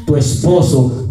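drawn-out, slow proclamation; retold prophecy. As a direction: stretch it out like a prophet declaring. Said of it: "decía".

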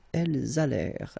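"elles allèrent" linked with a z; liaison. Shown as a demonstration. Teacher modelling the plural link, liaison.

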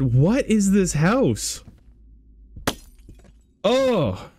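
high, slow eerie wail; spooky drawn-out voice. Pretend. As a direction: draw it out like a haunted voice. Wandering alone in haunted house.

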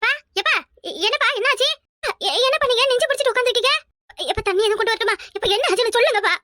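high, alarmed calls to a sick father; frightened daughter pleading; panicked worry. Acted. Daughter finds father clutching chest. (பதற்றமான பயம்)

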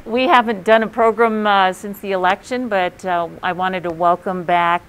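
muffled through a face mask; talking through a mask. Real, not acted. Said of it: "trying to talk through my mask".

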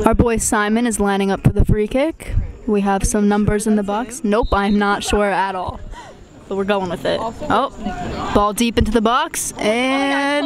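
lively amateur sports commentary; live play-by-play. Acted. Friends filming a casual match, calling it like sportscasters. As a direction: call the match like a stadium announcer, half joking.

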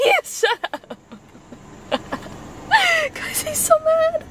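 giggling at him to the camera; laughing. Real, not acted. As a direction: crack up while telling the viewers. Laughing at angry boyfriend.

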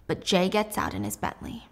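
usual speaking voice

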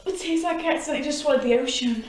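fast, rushed words after too much salt; disgusted gasping. Real, not acted. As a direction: blurt it out quickly, still grossed out.

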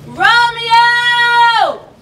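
loud drawn-out call of Romeo. Acted. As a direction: call out long across the orchard. Calling out for Romeo.

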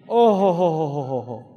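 loud teasing "oh ho ho" laugh; knowing chuckle. Real, not acted. Teasing the men about their wives, booming chuckle. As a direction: laugh like you know the story well.

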